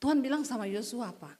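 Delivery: normal talking voice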